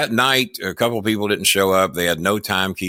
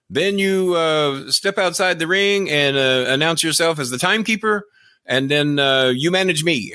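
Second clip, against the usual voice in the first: high mock Japanese accent; pitched-up Japanese-accented impression; fake Japanese accent; 7 semitones higher than usual. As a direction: give instructions in a badly faked Japanese accent. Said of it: "fake Japanese accent".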